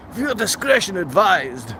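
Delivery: light, mock broadcaster warning. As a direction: read it like a half-serious TV disclaimer.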